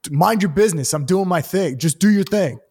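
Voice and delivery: a hint of a snotty dismissive guy; rude heckler. Heckler brushing off the comic, mildly smug. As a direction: brush her off with mild contempt.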